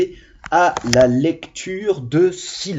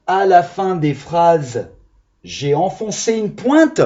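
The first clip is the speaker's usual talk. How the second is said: slow, teasing silly reading of the wrong ending; mock wrong answer; 2 semitones higher than usual. Shown as a demonstration. Teacher reads the silly wrong ending to the children, mock serious. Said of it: "On fait ça à l'école".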